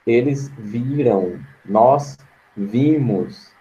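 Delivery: very slow, careful "Eles viram. Nós vimos"; teacher modelling correct agreement slowly; slow correct example. Shown as a demonstration. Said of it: "tem que concordar com a pessoa".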